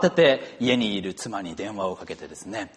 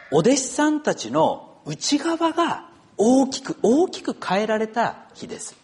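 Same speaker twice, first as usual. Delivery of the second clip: emphatic sermon delivery, pitch lifted on key phrases; preaching; 5 semitones higher, 3 dB louder than usual. Real, not acted. Pastor telling the congregation what Pentecost and Easter mean, preaching emphatically. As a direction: preach it in measured phrases with high, swelling emphasis.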